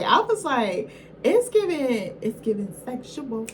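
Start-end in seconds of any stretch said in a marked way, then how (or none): 1.2-3.5 higher, sassy it's-giving voice; Jessie Wu catchphrase. Retold or imitated. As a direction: quote Jessie Wu with playful sass. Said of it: "as Jessie Wu would say".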